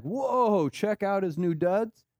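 high-pitched impressed "whoa"; comic wowed reaction; mock amazement. Mimics onlookers at the Transfiguration.

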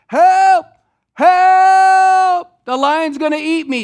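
a man in a gorilla suit shrieking for help; panicked yelling. Acted. Gorilla panics before the lion, screaming for help. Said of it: "the gorilla starts yelling".

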